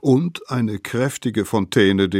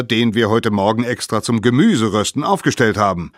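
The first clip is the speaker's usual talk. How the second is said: louder, scolding parent voice; a touch of angry elders; 3 semitones higher, 6 dB louder than usual. Acted. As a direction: tell off the late kids.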